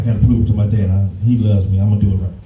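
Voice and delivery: put-on a kid vowing to win his dad's love; a low, mock-solemn kid talking to himself; earnest kid self. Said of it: "I said".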